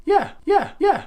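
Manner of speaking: high, cheeky yeah yeah; sassy yeah. Real, not acted. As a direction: brush off the doubter playfully. Answering the imagined doubter.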